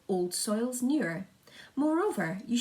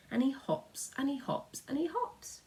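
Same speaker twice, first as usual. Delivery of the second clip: each hops higher, softer; rising hop refrain; 6 semitones higher, 3 dB quieter than usual. Acted. The speaker showing the grasshopper hop, each step higher. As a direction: bounce each one up a step.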